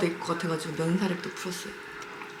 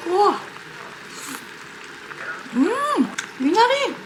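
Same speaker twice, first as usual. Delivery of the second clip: high excited mmm of delight; 11 semitones higher, much slower than usual. Real, not acted. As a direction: savor it with a high squeal. Tasting food, delighted.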